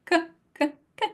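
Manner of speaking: dry k, k; unaspirated k; Italian k. Shown as a demonstration. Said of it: "Can you feel the difference".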